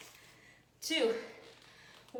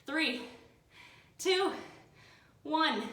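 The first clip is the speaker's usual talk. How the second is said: shouted countdown; 6 semitones higher, 5 dB louder, much slower than usual. Real, not acted. Coach counts down the hold.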